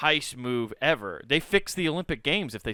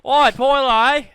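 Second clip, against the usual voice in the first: high, loud hammed-up shout; full-voiced, high-pitched hollering; comic yell; 12 semitones higher, 10 dB louder, much slower than usual. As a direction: bellow it as a mock Aussie call. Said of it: "that breakdancer needed to yell".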